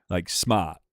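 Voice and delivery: "smart" with the R dropped; British pronunciation. Shown as a demonstration. Streamer showing British pronunciation, "smart" without its R. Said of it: "they pronounce the whole word different".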